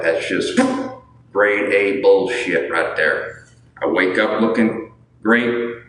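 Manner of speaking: put-on boastful folksy Southern accent; joke Southern accent. Streamer boasting of good genetics to viewers, joke Southern accent. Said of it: "this Southern accent is a joke".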